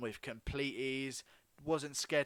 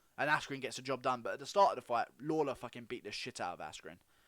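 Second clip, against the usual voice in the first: ordinary talk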